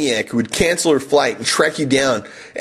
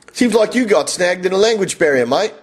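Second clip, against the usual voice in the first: higher-pitched Aussie bloke; Australian accent; 5 semitones higher than usual. Acted. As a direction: put on a broad Australian accent. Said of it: "I turned to an Australian guy".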